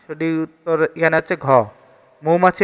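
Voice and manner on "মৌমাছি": মৌমাছি said as "MOU-ma-chhi"; model pronunciation. Shown as a demonstration. Teacher answers for মৌমাছি, modelling it with a clear "mou". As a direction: clear "ou" glide opening মৌমাছি. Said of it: "এর সঠিক উচ্চারণ হচ্ছে".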